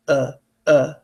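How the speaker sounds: "uh" said slackly, mouth barely moving; short, effortless "uh" sounds; lazy schwa. Shown as a demonstration. Teacher proving the unstressed part needs no effort, lazy "uh". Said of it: "I don't even have to move".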